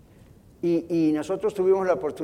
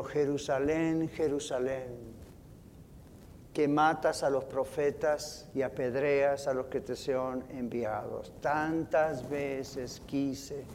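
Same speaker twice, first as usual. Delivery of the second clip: weeping lament; 4 semitones lower, 7 dB quieter, slower than usual. Retold or imitated. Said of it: "el impacto de Jesús fue ponerse a llorar".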